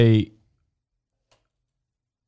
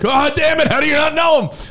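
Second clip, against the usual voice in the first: mock exasperation. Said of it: "And you're like".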